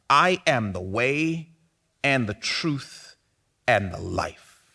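slow, measured reading of I am the way, and the truth, and the life; slow reflective reading. Shown as a demonstration. Pastor lingering over Jesus's words, slow and reflective. Pastor rereads the verse slowly.

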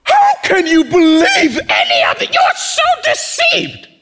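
high, shouted, scornful voice; mocking CNN viewer. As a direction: play the outraged viewer, shrill and loud. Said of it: "listen to the person who watches C N N".

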